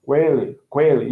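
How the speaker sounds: "com ele" as one word, "kweh-lee"; linked W sound. Shown as a demonstration. Teacher demonstrating the added sound, "com ele" as "kwele". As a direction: glide through a W in "com ele". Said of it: "um, W".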